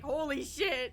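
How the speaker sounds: a laughing, half-crying holy shit; stunned disbelief. Retold or imitated. Retelling when Burke noticed her, laughing gasp of disbelief. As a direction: remember the shock of being noticed. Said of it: "I was like".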